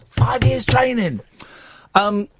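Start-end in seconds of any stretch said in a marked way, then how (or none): 0.1-1.2 high mocking voice; mock outrage. Real, not acted. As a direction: squeal it in disbelief. Mocking repeat.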